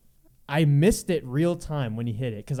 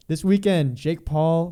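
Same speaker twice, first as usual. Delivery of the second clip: news reporter announcing; 2 semitones higher, 6 dB louder, slower than usual. Acted. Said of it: "Why do I sound like a reporter".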